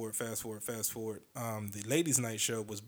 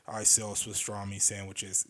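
put-on slow, heavy New York accent; 2 semitones lower, slower than usual. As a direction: do a New Yorker selling deli. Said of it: "That's what he sounds like".

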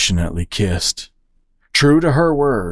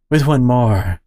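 one more pressed hard and slow; stress on one more. Acted. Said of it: "she emphasized".

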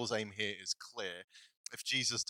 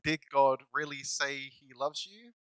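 slow, insinuating question; tempter's slow sly question; sly doubting voice; 3 semitones higher, 3 dB louder, slower than usual. Retold or imitated. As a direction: plant the doubt slowly. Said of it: "a voice saying".

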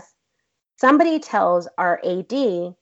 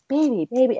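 higher-pitched mock coaxing; 5 semitones higher than usual. Man running finger on her thigh, mock coaxing. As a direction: imitate a man sweet-talking. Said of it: "He tried, like, coaxing me".

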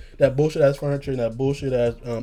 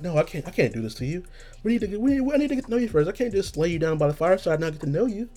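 Red Velvet Jared; 5 semitones higher, 4 dB quieter, faster than usual. Acted. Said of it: "That's Red Velvet Jared".

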